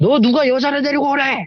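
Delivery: mock yelling voice. Retelling how grandmother suddenly scolded: imitating grandmother yelling. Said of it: "저한테 이렇게 소리를 지르시는 거예요".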